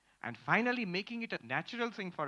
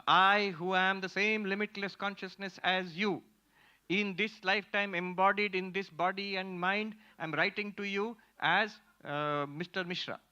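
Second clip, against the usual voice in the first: slow, deliberate mock-grand declaiming; mock lofty self-introduction; 3 semitones higher, 4 dB louder than usual. Teacher quoting a student's letter to the class, mock lofty. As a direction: draw it out as a ponderous formal announcement.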